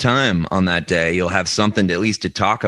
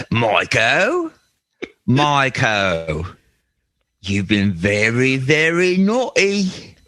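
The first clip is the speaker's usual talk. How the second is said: slow, lightly creepy British ape voice; slow mock menacing ape; British skunk ape; 2 semitones higher, slower than usual. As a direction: leer at Michael slowly like a lecherous ape. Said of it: "What would a British skunk ape sound like".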